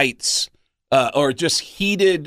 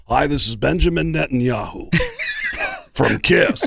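Netanyahu voice. Shown as a demonstration. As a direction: sound like Netanyahu doing Kiss. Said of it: "It's the same voice".

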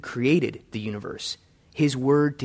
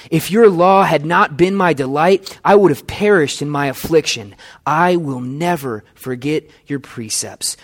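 a louder, declaiming read of the psalm, opening strong; solemn scripture reading; 4 dB louder than usual. Acted. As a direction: proclaim the verses like a preacher reading the Word. Reads the psalm passage aloud.

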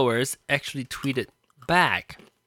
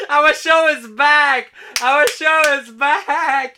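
announcer voice; 8 semitones higher, 4 dB louder, slower than usual. Acted. Mock announcing show return.

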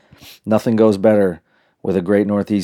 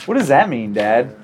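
mimicking daughter; 2 semitones higher than usual. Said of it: "she's like".

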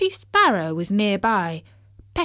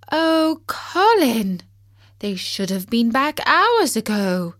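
sad; 4 semitones higher, 4 dB louder than usual. Acted. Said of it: "she said sadly".

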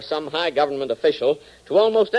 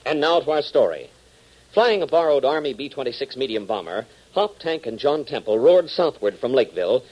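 dramatic serial narration building to the storm; story narration; 2 semitones lower than usual. A narrator's reading. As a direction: tell the storm like a cliffhanger.

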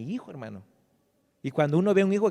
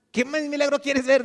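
higher and louder, a pastor's pointed challenge; challenging pastor; 11 semitones higher, 7 dB louder than usual. Retold or imitated. Pastor firing back at a doubting brother, louder challenge. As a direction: demand it of the doubter, rising up.

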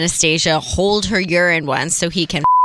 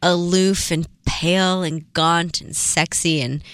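sultry pitch voice; 4 semitones lower, slower than usual. Acted. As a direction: lure them in, low and slow. Selling the glamorous model life.

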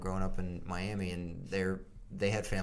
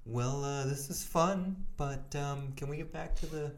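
body talking back; 4 semitones higher than usual. Retold or imitated. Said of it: "your body's like".

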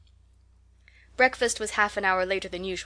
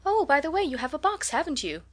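feigned innocence; 7 semitones higher than usual. A narrator's reading. Rose feigning casual surprise.

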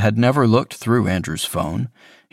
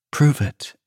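lightly voiced boyfriend, pitched higher, coaxing; sugary guilt-trip, smooth and needling; manipulative boyfriend; 6 semitones higher than usual. A narrator's reading. Boyfriend coaxing his guilty partner, in a higher, sweetly needling voice. Andrew demands a kiss.

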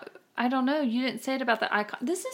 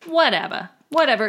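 dismissive; 3 semitones higher, 6 dB louder than usual. Real, not acted. Dismissing the feud.

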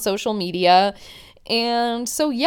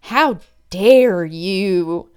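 really pissed off; 3 dB louder than usual. Retold or imitated. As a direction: imitate a girlfriend working up to outrage. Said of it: "she's getting really pissed off".

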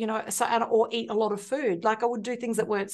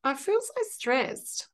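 slow repeated affirmation; 4 semitones higher, much slower than usual. Shown as a demonstration. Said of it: "repeat after the guide".

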